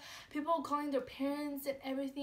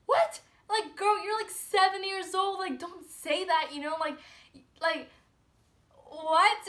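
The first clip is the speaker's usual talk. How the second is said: much higher and louder, staying up in pitch; shocked disbelief; 6 semitones higher, 6 dB louder than usual. Retold or imitated. Narrator to a seven-year-old saying she wants to die, high loud shock. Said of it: "I was just, like, in shock".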